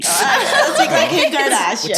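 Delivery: put-on slow, drawn-out Valley Girl voice; Valley Girl parody, stretched words. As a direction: play a drawling Valley Girl. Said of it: "I can do Valley Girl".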